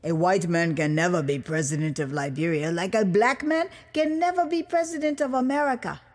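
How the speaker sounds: lightly voiced proud Liberian man; a hint of a patriotic official, firm; lightly voiced official telling an American visitor, proud.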